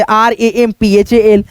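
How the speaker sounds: "आर ए एम पी एच ए एल" spelled out slowly, letter by letter; slow letter-by-letter spelling. Shown as a demonstration. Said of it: "तो simple बात है". (धीरे-धीरे एक-एक अक्षर बोलकर)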